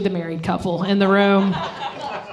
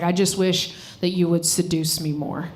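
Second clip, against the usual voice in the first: imitating ex, softer; 5 semitones lower, 5 dB quieter than usual. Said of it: "He's like".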